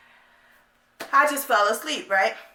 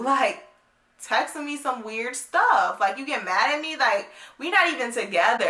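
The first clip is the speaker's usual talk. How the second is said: exasperated. Retold or imitated. Acts out her exasperated reply.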